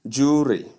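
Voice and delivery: "jewelry" squeezed to JOO-ree, no L; wrong pronunciation. Shown as a demonstration. Teacher shows how some people say it, mispronunciation without the L. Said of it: "Some people pronounce it as".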